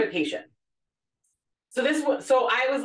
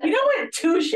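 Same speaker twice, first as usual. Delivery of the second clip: excited; 11 semitones higher, 5 dB louder than usual. Retold or imitated. Nurse's delighted reply.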